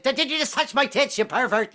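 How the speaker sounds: high indignant woman voice; offended woman. Retold or imitated. Woman slapping a man who swiped, outraged. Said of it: "you get slapped".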